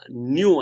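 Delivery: "new" singled out with firm stress; stressed, isolated "new"; emphasis on new. Real, not acted. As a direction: say "new" on its own, with weight. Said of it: "emphasizing the word new and original".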